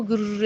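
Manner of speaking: rolled whirring "gurr" noise; imitated cooler hum. Describing the cooler's vibration to Maa ji, imitated hum. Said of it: "ऐसे करके सुन रही हो".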